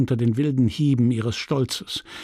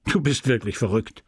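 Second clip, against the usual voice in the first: laughing. Acted. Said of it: "sagte er lachend".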